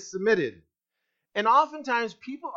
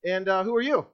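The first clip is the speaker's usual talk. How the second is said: lightly acted awkward introduction, filled with ums; mock hesitant; slower than usual. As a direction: stumble mildly through a slow hello. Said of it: "He didn't go, um, uh".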